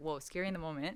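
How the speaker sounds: plain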